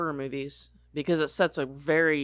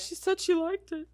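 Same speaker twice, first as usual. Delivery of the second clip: exaggerated cartoon intonation; 12 semitones higher, 5 dB quieter than usual. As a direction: ham it up like a cartoon. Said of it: "You sound very exaggerated".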